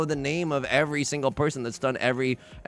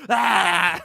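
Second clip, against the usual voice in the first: excited shout; 5 semitones higher, 4 dB louder than usual. Real, not acted. Big hand appears.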